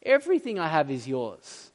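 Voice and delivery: lightly acted fatherly tenderness; earnest, gentle reassurance that settles at the end; tender father. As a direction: reassure a wounded son, lovingly. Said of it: "Do you hear the tenderness?".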